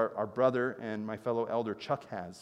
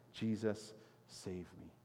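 cries out; 4 semitones lower, 9 dB quieter, slower than usual. Acted. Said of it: "he cries out".

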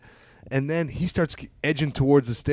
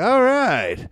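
mock scared; 9 semitones higher, 7 dB louder than usual. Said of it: "I was like".

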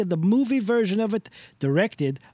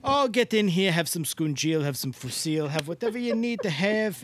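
Mister Del Rossi Italian voice; 3 semitones higher than usual. Acted. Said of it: "doing that Italian voice again".

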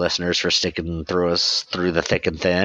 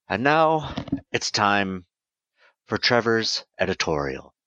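announcer intro. Acted. Host announcing the editorial segment, mock-formal.

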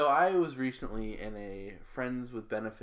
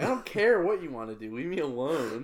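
annoyed; 4 semitones higher, 5 dB louder than usual. Retold or imitated. Retold rant at pushy caller.

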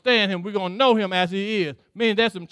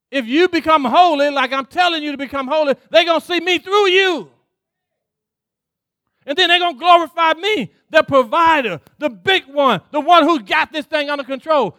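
louder preaching as God; 4 semitones higher, 4 dB louder than usual. Acted. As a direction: proclaim it as God's word. Voicing God, preached loud.

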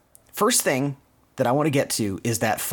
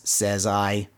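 level, deadpan retort; lightly imitated echoing spring; spring's echo; 3 semitones lower than usual. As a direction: answer back in monotone. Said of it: "the echo of his voice".

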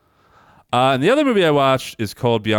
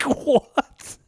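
baffled what. Retold or imitated. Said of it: "I was like".

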